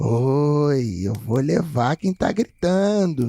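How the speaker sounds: very slow, each word stretched, "oi" drawn out. Retelling a childhood night, imitating the voice heard at the window. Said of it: "a voz falou mais umas duas vezes".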